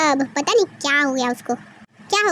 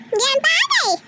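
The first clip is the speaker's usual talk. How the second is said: put-on excited child; 6 semitones higher than usual. Child greets grandpa.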